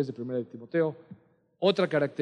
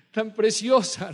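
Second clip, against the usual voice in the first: high, gushing praise, slowing down with a laugh; gushing church ladies; 9 semitones higher than usual. Retold or imitated. Church sisters praising the pastor's daughter, high and gushing. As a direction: coo over her like admiring church sisters. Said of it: "Y luego decían".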